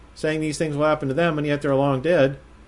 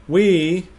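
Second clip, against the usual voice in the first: "We" lifted high, then a pause; stress on WE; 4 semitones higher, 3 dB louder than usual. Shown as a demonstration. Bible teacher rereads the verse, stressing "We". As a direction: set "We" apart with weight. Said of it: "Paul is underlining that "we".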